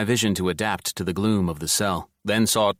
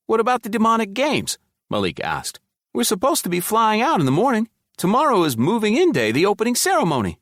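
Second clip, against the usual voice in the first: much higher and louder, pressing worry; anxious urgency; 4 dB louder than usual. Acted. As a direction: Malik asking about the games, high and anxious. Malik worried about the games.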